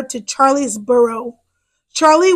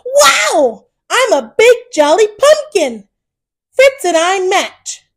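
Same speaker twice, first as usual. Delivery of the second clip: much higher, bright wow; delighted; 5 semitones higher than usual. Acted. To Mama, trying on a pumpkin costume, delighted. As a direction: show off the costume with joy.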